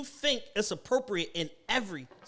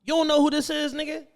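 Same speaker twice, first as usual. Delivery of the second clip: loud, high mock shout as a rapper; retold rapper shout; 7 semitones higher, 6 dB louder than usual. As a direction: bark it like a billionaire who got disrespected. A rapper voiced in retold scene.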